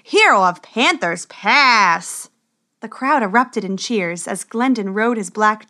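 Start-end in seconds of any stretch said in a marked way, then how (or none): 0.0-2.3 loud, high, drawn-out tournament introduction; herald announcing. A narrator's reading. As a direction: proclaim each name slowly to the crowd. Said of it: "The herald soon came out to introduce".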